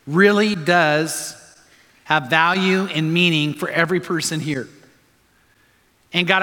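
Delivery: earnest public prayer with pauses. Real, not acted. Pastor asks God to help the congregation, praying.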